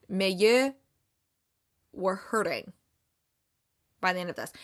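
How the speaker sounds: lightly mocking French accent; half-hearted fake French accent; bad French accent. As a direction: put on a rough French accent. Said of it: "his accent was probably".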